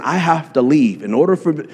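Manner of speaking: normal talking voice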